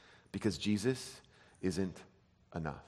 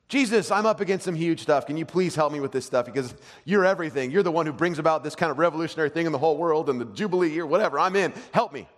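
raised, pressing prayer for help; acted urgent plea; 5 semitones higher, 4 dB louder than usual. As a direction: plead eagerly, piling on the flattery.

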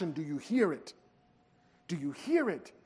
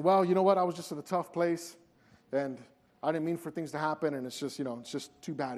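softer, trailing-off self-excusing; mumbled excuses; 4 semitones lower, 4 dB quieter than usual. Retold or imitated. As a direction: shrug it off with a quiet excuse. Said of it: "responded with excuses".

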